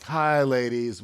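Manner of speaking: slow, drawn-out greeting from a bored waiter; bored waiter attitude. Retold or imitated. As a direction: greet them grudgingly, stretching the words. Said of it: "my "I've gotta work lunch" attitude".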